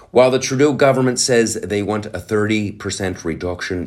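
lightly Irish news read; a touch of Irish lilt on the read; Irish accent. Acted. Reading the article to viewers, light Irish accent. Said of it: "I'm doing Ireland".

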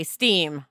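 "steam" said slowly and pressed, set against stem; stress on steam. Shown as a demonstration. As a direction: lean on the word "steam", drawn out. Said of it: "not stem".

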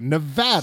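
Nevada with a flat A as in cat; corrected pronunciation. Shown as a demonstration. Host practising the correction just given, flat-A pronunciation. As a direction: practise "Nevada" with a short middle A. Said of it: "I'll make a note of it".

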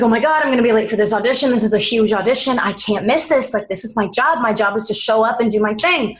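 fast, frantic retold panic; panicked rush. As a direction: rattle it off in a panic. Panicking about being late.

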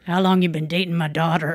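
put-on a gruff dad grilling the boyfriend; stern dad voice.

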